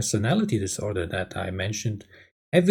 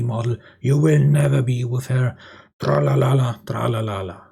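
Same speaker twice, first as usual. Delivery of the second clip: angry complaint. Acted. Wife rants at husband over wasted money, mock angry. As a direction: nag in acted anger, leaning on every word. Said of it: "complaining and bursting out in anger".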